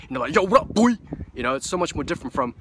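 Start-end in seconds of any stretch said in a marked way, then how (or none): 0.3-1.0 loud, high put-on African American accent. Shown as a demonstration. Vlogger suddenly busting out of his New Zealand accent, loud African American imitation. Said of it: "this African American".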